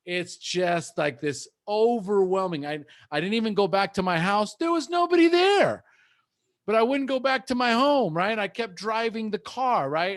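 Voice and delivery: reliving it until the voice breaks; choked up. Real, not acted. Recovering man recalls his breakdown on a call, voice breaking high. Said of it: "I'm sobbing uncontrollably".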